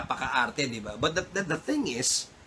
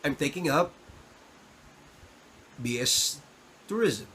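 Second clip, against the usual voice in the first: polished answer. Shown as a demonstration. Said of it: "It's better when you say".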